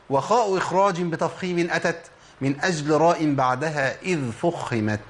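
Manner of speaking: slow chanted recitation of a poem; measured poetic recital; recited verse. Shown as a demonstration. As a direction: recite the rule line like verse. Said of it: "وقال في ذلك متن شعر".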